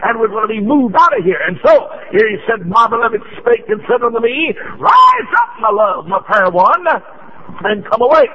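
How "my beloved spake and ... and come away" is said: shouted scripture. Real, not acted. Preacher to church, crying out the call to rise. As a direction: call it out like a summons.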